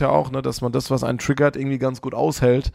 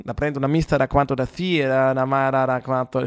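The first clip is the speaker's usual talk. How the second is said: mock Italian babble, hammed up; fake Italian gibberish. Shown as a demonstration. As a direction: rattle off pretend Italian. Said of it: "fließend Fantasie-Italienisch sprechen". (Fantasie-Italienisch, Kauderwelsch mit italienischem Klang)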